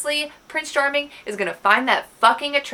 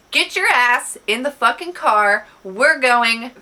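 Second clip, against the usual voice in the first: bossy ordering; 2 semitones higher, 5 dB louder than usual. Retold or imitated. Retold order to get moving.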